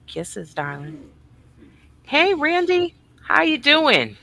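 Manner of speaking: light up for Randy; excited hello. Real, not acted. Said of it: "Why do you get excited over some people".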